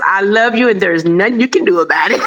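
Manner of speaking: sassy, fast, laughing; mock defiance to naysayers; defiant. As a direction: throw it at the doubters with a grin. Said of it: "you tell those naysayers".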